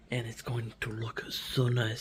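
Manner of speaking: soft breathy whisper of delight; whispered admiration. Real, not acted. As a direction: whisper it like a secret you love. Admiring the planned room.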